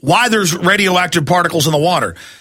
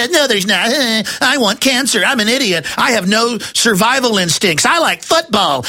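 mocking yuppie; 4 semitones higher than usual. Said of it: "they just go".

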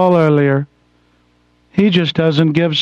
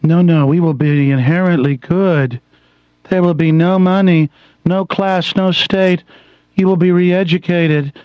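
mock soft NPR voice. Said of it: "let me talk to you like this".

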